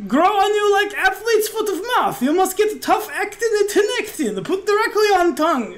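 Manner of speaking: high, lilting innkeeper in broken English; eager foreign salesman patter; punning innkeeper. Acted.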